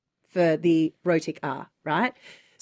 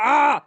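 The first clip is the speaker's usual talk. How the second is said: exasperated "ah"; frustrated groan; 6 semitones higher, 5 dB louder than usual. Real, not acted. Searching memory for an example word, frustrated groan. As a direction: groan at a word that won't come.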